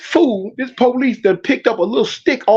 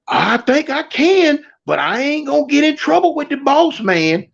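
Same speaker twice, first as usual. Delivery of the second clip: nervous coworker holding back; timid inmate voice; 6 semitones higher than usual. Retold or imitated.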